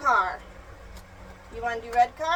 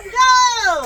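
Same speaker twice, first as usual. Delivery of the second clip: loud, higher, stretched go; race start call; 4 semitones higher, 9 dB louder than usual. Real, not acted. Mother starting the toy car race, calling out. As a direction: call the start with a burst of energy.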